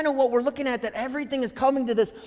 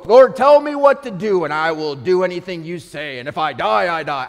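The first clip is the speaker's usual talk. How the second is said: bold pledge; 4 semitones lower, 7 dB louder than usual. Retold or imitated. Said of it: "I'm not the Patrick Henry guy".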